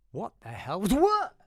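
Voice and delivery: loud, high mock shock; startled. Startled by a clump on shoulder.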